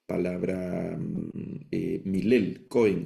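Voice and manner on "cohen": cohen with the accent on its first syllable; stress on first syllable. Shown as a demonstration. Teacher shows students where the accent goes, cohen stressed on first syllable. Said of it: "el acento en la primera sílaba".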